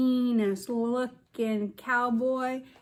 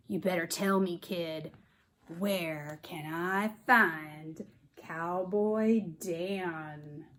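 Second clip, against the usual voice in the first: gruff villain. Acted. Outlaw Black Bart threatening the boy, mildly gruff. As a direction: lean in like a mean outlaw. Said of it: "a gruff voice said".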